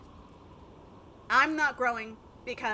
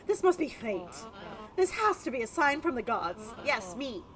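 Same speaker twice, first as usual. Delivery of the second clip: dandy voice. Acted. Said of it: "I gave him a dandy voice".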